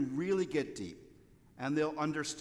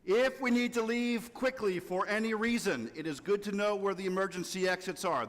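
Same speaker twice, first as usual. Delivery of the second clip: lightly voiced flight attendant; a hint of cabin safety announcement; 4 semitones higher than usual. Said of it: "This is my stewardess impression".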